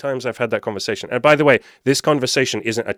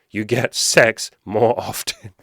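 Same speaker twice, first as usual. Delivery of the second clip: slow, spaced stress on "You get sex more often"; drilling the point; slower than usual. Real, not acted. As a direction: hammer out "sex more often" word by word, slowly. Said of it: "am I gonna drill that point".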